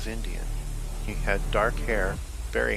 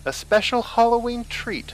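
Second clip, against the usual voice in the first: male voice; 7 dB louder than usual. A narrator's reading. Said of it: "another male voice said".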